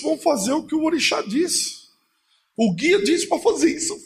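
high, hurried voice of a frightened mother; a touch of panic; mother shaken and rushing to obey; scared mother. Retold or imitated.

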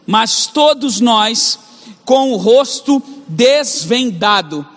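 slow, weighty reading of the verse; slow scripture reading. Shown as a demonstration. Pastor reading verse eighteen to the church, slow and weighty. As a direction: lay each word down slowly.

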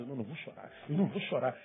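barely audible, swallowing the tears; hushed self-denial. Retold or imitated. Person alone holding back tears, hushed murmur. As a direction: murmur it to yourself after wiping a tear. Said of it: "aí tu enxuga a lágrima e fala".

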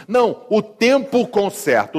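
mock sing-along of a bad saying; mocking singsong. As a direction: parody a lazy excuse in singsong. Mocking what some people say.

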